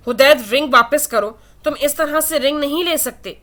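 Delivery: panicked plea for the ring; alarmed begging, voice rising; distressed. Acted. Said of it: "آئلہ پریشانی سے بولی".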